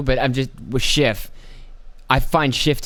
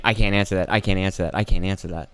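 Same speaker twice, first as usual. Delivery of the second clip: lower-pitched, repetitive stock answer; mimicked stonewalling; 6 semitones lower, faster than usual. Official dodging questions, mimicked low stonewalling. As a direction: drone out the same refusal in a low voice. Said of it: "When she wasn't just saying".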